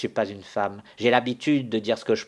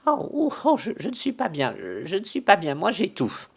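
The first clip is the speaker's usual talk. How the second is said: much higher, gasping distressed voice; breathless panic; 10 semitones higher than usual. Acted. Frightened servant feels faint during the quarrel. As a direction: gasp as if you can't breathe.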